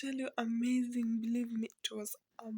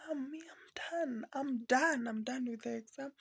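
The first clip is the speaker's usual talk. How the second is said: son's voice. Retold or imitated.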